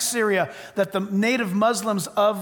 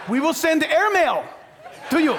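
laughing quote; 4 semitones higher than usual. Retold or imitated. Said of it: "just wait and you'll see".

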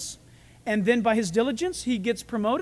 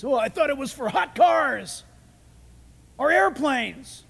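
lightly voiced naive listener, stretching the end; a hint of a puzzled objector; mock objector; slower than usual. Mock listener mistaking the word's meaning.

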